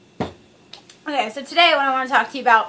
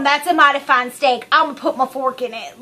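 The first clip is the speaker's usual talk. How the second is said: lightly leering creep; 3 dB louder than usual. Retold or imitated. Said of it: "Like, he's going".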